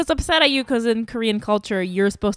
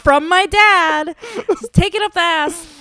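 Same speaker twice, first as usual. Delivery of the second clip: laughing mockery; 8 semitones higher, 4 dB louder than usual. Mocking the phrase, laughing.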